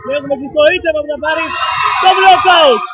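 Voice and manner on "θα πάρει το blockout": raised, louder play-by-play burst; excited point call. Real, not acted. Commentator calling a block-out in live volleyball, excited.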